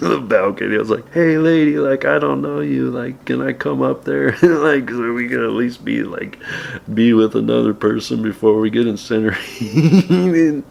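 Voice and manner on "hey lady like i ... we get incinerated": retold yell up. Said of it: "I yelled up".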